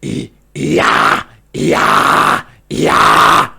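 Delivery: harsh black metal shriek on yeah; black metal scream. Shown as a demonstration. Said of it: "You sound like, like more black metal stuff".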